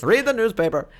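put-on cranky old man voice. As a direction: scold like a grumpy old man. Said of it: "Old man Travers".

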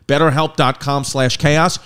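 betterhelp dot com slash chaos read at ad pace, rising at the end; ad read URL. Shown as a demonstration. Host giving listeners the promo link, quick ad voice. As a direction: drop the URL in passing with a lift on chaos. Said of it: "first read of promo URL".

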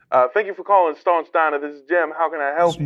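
light Southern phone greeting; lightly Southern diner owner; vaguely Southern. Acted. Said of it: "He was Southern, vaguely?".

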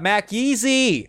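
cool announcer voice. Acted. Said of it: "Why'd you say it like that?".

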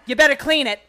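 squeaky high helium yell. Real, not acted. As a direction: shout it sucked on helium. Helium voice, yelling at friend.

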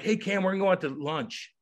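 lightly voiced friendly coach; imitated coaches. Coaches invite new player to lunch, lightly imitated. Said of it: "the coaches are like".

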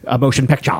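"picture" stretched to end in an open "ah"; affected extra "A". Retold or imitated. Imitating a storyteller trying to sound classy, "picture" ending in a long "ah". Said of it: "That's how he would say it".

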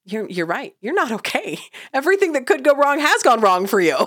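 parent brain. Retold or imitated. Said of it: "But my parent brain goes".

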